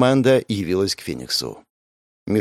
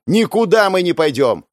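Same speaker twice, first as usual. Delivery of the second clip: defiant shout; 8 semitones higher, 4 dB louder than usual. Acted. Fan protesting to the crowd.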